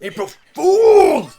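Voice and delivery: high, loud, slow laughing reveal; prank reveal laughing. Pretend. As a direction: stretch it out through laughter.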